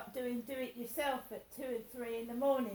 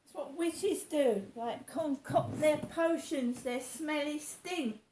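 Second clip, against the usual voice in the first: louder rant; 2 semitones higher, 5 dB louder than usual. Real, not acted. Ranting about witches' potions.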